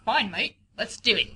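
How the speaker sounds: put-on a weak British accent that slips toward Australian; mock British accent. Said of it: "That's Australian".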